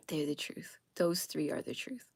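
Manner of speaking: soft whispered emphasis; confiding whisper. Real, not acted. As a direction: whisper it like a secret truth. Confiding which memoirs to trust.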